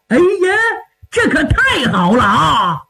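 delighted exclamation starting high; overjoyed. Acted. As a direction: cry out at unexpected good news. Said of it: "郑印听完乐的". (乐得直喊)

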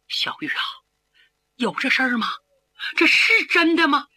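shaken son asks in a faint, unsteady voice; barely gets the question out, trembling. Acted. Young man stunned by news of his father, trembling. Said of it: "颤抖声音问".

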